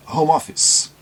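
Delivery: home office said with a clear h and no final vowels; English home office. Shown as a demonstration. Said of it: "a pronúncia correta também de home office".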